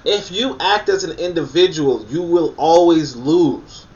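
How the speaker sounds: high, loud and slow; emphatic. Real, not acted. Warning the viewers, high, loud and slow. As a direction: stretch it out, warning them. Hammering his counterpoint.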